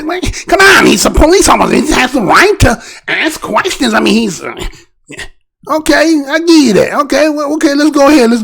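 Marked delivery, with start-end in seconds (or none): 0.0-3.9 mock objector. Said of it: "maybe some people say".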